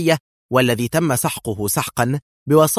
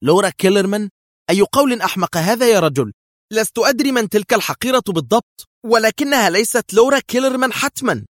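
much higher, louder outraged disbelief; loud, much higher scornful fury; indignant anger; 10 semitones higher, 5 dB louder than usual. A narrator's reading. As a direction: cut him off in outrage, climbing. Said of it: "قاطعته في غضب مستنكر".

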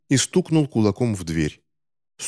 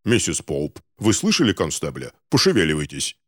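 lower, commanding voice; stern gentleman; 4 semitones lower than usual. Acted. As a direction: order the concierge to hurry. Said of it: "решил поддержать его". (строго приказать консьержке)

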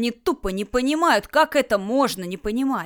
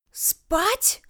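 резкий высокий визг-переспрос; взвизгни в возмущённом изумлении; 10 semitones higher than usual. Acted. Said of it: "взвизгнула Люля". (возмущённый визг)

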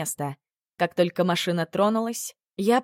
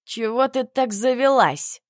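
slow, loud angry bark, voice up; barking at her; 4 semitones higher, 4 dB louder than usual. A narrator's reading. Emil barks at the heroine in the car, angry bark. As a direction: snap at her, hard and slow. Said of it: "рявкнул он".

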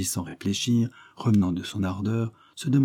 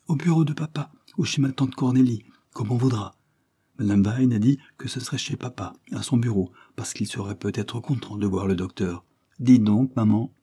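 put-on sick little boy; 3 semitones higher than usual. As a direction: play the frail young boy. Narrator voices the sick boy William.

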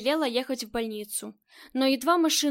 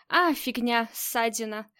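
dismissive; slower than usual. Acted. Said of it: "отмахнулась хозяйка".

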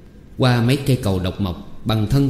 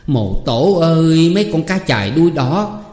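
scolding cry; 6 semitones higher, 3 dB louder than usual. A narrator's reading. Mother finding the pet fish chopped, crying out in reproach. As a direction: cry out in dismay, pitched high. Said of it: "Bà la lên".

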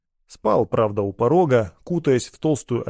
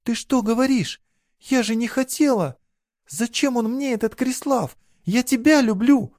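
put-on much higher, pleading girl's voice; desperate girl pleading; 12 semitones higher than usual. A narrator's reading. Girl begs her lover, desperate. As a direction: she begs him to believe her.

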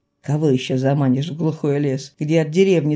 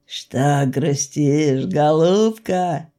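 gentle coaxing; 3 semitones lower, much slower than usual. Acted. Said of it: "Рыжий купец".

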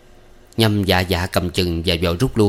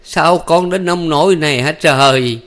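high, slow wailing cry of an anguished mother; mother bursting into tears; 8 semitones higher, 4 dB louder, slower than usual. A narrator's reading. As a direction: wail it out, drawn and high, as a mother seeing her hurt son. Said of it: "khóc òa lên".

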